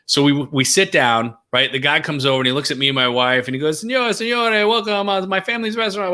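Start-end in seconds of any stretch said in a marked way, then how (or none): 3.8-6.1 put-on high, showy Italian waiter accent, pitched well up; a Roman host greeting diners, in an overdone Italian accent; bad Italian accent. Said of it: "I do a bad Italian".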